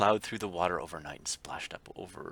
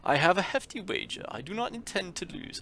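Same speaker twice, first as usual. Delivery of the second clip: fancy gentleman; 4 semitones higher than usual. Acted. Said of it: "I still don't have an accent for him".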